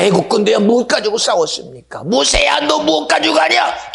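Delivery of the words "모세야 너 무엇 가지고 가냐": God's voice. Acted. Preacher voices God calling Moses.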